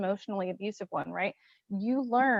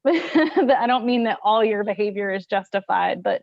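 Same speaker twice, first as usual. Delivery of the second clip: talking through a laugh, louder; 5 dB louder than usual. Real, not acted. Softening her blunt remark to her co-host, laughing. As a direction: laugh while backpedalling. Laughing caveat after calling someone bitch.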